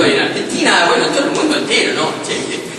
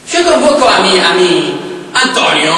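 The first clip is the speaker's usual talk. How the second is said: summoning voice; 4 dB louder than usual. Acted. Summoning the Italian spirit.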